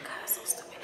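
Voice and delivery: breathy whispered sigh of disbelief; real whispered annoyance at the silly fight; exasperated aside. Real, not acted. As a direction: mutter it under your breath, fed up. Exasperated aside after the plate throw.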